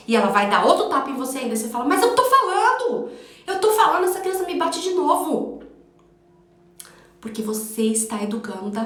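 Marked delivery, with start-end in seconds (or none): 1.8-5.6 high, loud whiny complaint; mock parent moaning, pitched up and louder; exasperated parent.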